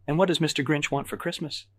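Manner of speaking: put-on high-pitched baby talk; baby's voice. A narrator's reading. Evelyn teasing Patrick as Grinch, in baby voice. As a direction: coo it as if to a toddler. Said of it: "Evelyn asks in a baby's voice".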